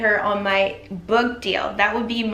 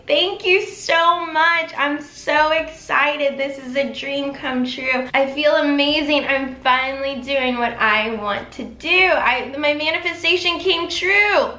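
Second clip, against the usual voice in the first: excited thanks; 3 semitones higher than usual. Shown as a demonstration. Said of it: "And I'm gonna say".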